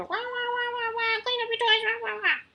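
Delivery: high, whiny wah-wah nag; mock nagging lecture. Mom mocking her own lecturing at the kids, high whiny nag.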